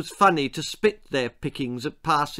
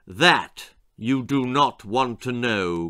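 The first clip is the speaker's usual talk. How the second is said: growled warning; slower than usual. Acted. Father warning scared daughter, slow ominous growl. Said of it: "growled her father".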